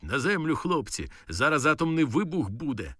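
yelling through the door at the lads; shouting warning. Retold or imitated. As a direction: warn the room at full voice. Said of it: "кричить".

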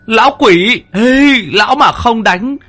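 put-on high, loud, slow cheering of a chubby boy; cheering from afar. A narrator's reading. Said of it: "đứng ở đằng xa cổ vũ".

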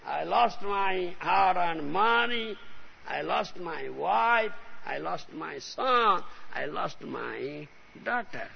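slow, drawn-out wail of loss; hammed-up grieving householder; mock lament. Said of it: "He'll lament, he'll cry".

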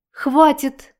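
high squeaking cry; a high startled squeak. A narrator's reading. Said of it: "пискнула".

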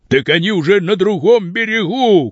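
high, exasperated shout; high-pitched alarmed exclaim. A narrator's reading. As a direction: cry out in alarm. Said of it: "кричал Тараканов".

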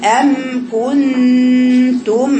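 أم كنتم drawn out very slowly with the lips closed on each م; lips closing on the mim. Shown as a demonstration. Teacher showing her girls the mim, lips fully closed, very slow. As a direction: hum the م of أم with lips sealed, very slow. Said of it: "أم الأولى والميم الثانية".

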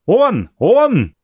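high, excited cry; old guest spotting the carriage, crying out high; excited shout. A narrator's reading. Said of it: "кричал Антон Иваныч".

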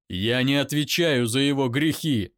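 loud bark; angry bark. Acted. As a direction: snap it back at her. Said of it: "рявкнул я".

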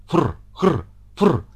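spitting, hissing cat noises. Acted. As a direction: hiss like a cornered cat. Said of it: "шипел он". (кот шипит, прыгая из угла в угол)

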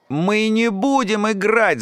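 put-on girl shouting in alarm. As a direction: cry it out in protest. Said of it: "закричала Инна Баженова".

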